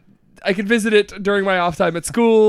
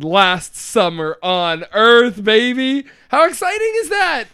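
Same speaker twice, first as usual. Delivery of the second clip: excited; 3 semitones higher, 4 dB louder, slower than usual. Real, not acted. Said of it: "I'm so excited".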